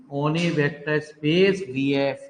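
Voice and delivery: very slow, each word set apart for copying; slow dictation. Shown as a demonstration. Teacher dictating the theorem, very slow. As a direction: dictate it so students can write it down. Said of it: "तो चलिए लिखिए प्यारे".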